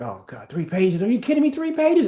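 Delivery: mock outrage over a tiny pile of paperwork; mock complaining. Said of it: "I complain about paperwork all the time".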